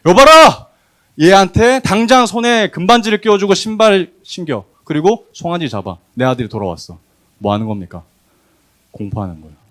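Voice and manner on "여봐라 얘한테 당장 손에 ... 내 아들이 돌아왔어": much higher and louder commanding call to the servants; loud proclamation. Shown as a demonstration. Father loudly proclaiming his son's return to the servants. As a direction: shout it out for the whole household. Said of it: "가 아니고".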